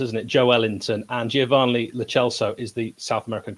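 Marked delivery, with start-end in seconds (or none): 0.3-1.0 Joe Ellington as one name, Jo-ELL-inton; correct pronunciation. Shown as a demonstration. Pundit appeals to Brazilian viewers, Joe Ellington as Jo-ELL-inton. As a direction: run Joe Ellington together, stressing ELL. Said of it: "it is pronounced".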